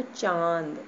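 चांद with the vowel through the nose; nasal चांद. Shown as a demonstration. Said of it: "देखिए नाक से भी उच्चारण हो रहा है".

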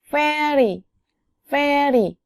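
very said with an f-like v and a falling tune; English very demo. Shown as a demonstration. Teacher models English very to explain v. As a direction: model very slowly. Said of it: "very 생각하면 돼요".

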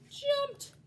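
sudden high, loud burst; dramatic leap. A narrator's reading. Narrator tells children of the big jump, dramatic. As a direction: launch the word like the leap itself.

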